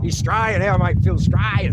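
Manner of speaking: high, loud, cracking-up exclamation; real hilarity. Real, not acted. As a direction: crow it out on the edge of laughter. Cracking up at Phil's spelling.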